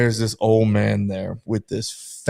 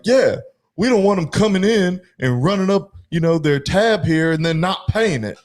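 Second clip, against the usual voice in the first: higher-pitched, lightly voiced cousin; a hint of a casual good-old-boy, pitched up; imitating the cousin; 6 semitones higher than usual. Imitating the cousin's racist reply.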